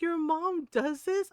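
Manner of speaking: high, slow mock disbelief; drawn-out, high-pitched astonished question; incredulous friends. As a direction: imitate an amused friend who can't believe it. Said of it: "my friends are cracking up about this".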